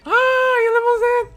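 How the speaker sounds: very high, loud surprised cry; thrilled gasp. Real, not acted. Player seeing the limousine, thrilled cry. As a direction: gasp in delight at the limo.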